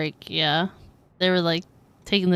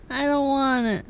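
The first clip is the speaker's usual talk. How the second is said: laughing refusal; 4 semitones higher than usual. Real, not acted.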